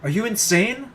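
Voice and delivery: slow, high furious shout; yelling. Acted. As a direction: scream it at her from the ledge. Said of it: "My yelling radiates around the schoolyard".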